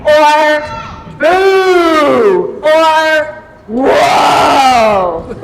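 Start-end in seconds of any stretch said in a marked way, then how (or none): 1.2-2.6 boo demo. Shown as a demonstration. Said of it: "I need you to either say". 3.7-5.3 amazed whoa for the crowd; whoa demo. Shown as a demonstration. Showing the audience their whoa response, rising amazement. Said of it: "I need you to either say".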